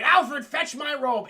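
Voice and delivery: a mock-heroic command, drawn out for effect; commanding order. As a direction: bark it down the hall at the butler. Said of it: "And he's like".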